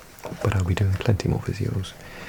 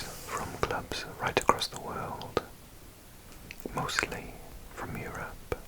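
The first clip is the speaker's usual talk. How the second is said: slow, hushed ASMR whisper; soft whisper; 12 dB quieter than usual. Real, not acted. Telling viewers about club crests, slow soft whisper. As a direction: whisper slowly, very softly.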